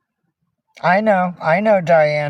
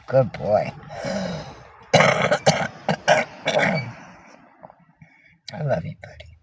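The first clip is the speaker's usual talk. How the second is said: tender murmur; 4 semitones lower, 5 dB quieter, slower than usual. Real, not acted. Murmuring affection to a pet.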